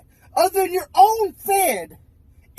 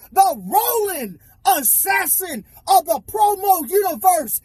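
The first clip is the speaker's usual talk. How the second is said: raised, higher-pitched wrestling promo tirade; indignant boasting; 4 semitones higher than usual. Acted. Wrestler rejecting the rival's nickname and declaring himself, indignant boast. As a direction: proclaim your name with rising force.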